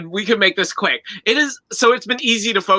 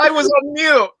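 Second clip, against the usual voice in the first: chirpy, higher embarrassed admission; sheepish smiling; 9 semitones higher, 3 dB louder than usual. Pretend. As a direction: brush it off with a grin. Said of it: "Let's see it".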